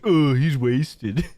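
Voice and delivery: laughing through a slow mock of chat; laughing mock quote. Cohost teasing the drunk streamer, laughing. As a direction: giggle out the chat's teasing line. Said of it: "I see you in chat like".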